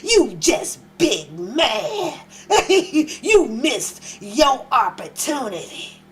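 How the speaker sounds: slow mock badass taunt, laughing through it; badass rapper voice. Host taunts the angry fan in a badass rapper voice. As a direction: drawl it out like a tough rapper. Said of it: "In my Boosie badass voice".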